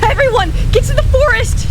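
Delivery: very high, loud screech; screeched warning. Acted. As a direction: scream them toward safety. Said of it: "she screeched".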